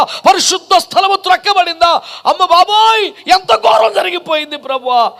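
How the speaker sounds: high, wailing cry to the Lord; mock-anguished outcry in prayer; acted lament. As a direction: lament the ruined city, pitched high. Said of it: "ఏడ్చేవాడు ఎవడన్నా ఉంటే".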